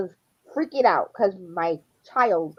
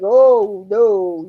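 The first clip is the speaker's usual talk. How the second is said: loud "Oh, no"; mock alarmed kid; alarmed cry; 9 dB louder than usual. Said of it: "our kid is like".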